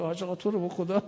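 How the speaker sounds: quick mock pleading; imitating pleading. A panicked old man begging the cleric, mock pleading.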